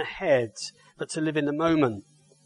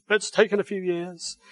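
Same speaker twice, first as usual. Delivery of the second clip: put-on Suffolk accent; 3 semitones higher than usual. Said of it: "So I would do a Suffolk accent, or attempt to".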